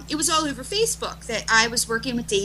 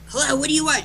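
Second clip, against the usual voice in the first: higher-pitched, mildly put-out phone answer; retold impatience; 5 semitones higher, faster than usual. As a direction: answer a pestering friend, a bit impatient. Retold impatient answer to friend's call.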